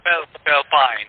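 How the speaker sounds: halting "Philippines" as "Fell-pine"; slowly retry "Philippines", coming out "Fell-pine"; mispronounced Philippines. Real, not acted. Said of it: "Can you say that word again".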